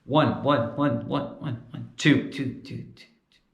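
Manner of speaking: each count fades away; echoing sound check. Shown as a demonstration. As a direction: mimic echo in the speakers.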